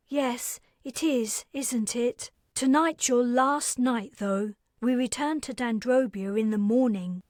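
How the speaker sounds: put-on bright, businesslike young woman reminding her guest; Carrie's voice.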